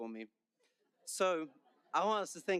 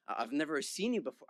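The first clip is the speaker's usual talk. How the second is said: clumsy put-on American accent; bad American accent. Student quoting the gym stranger, bad American accent. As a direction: imitate an American, not very well. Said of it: "I'm gonna stop my accent now. It's really bad".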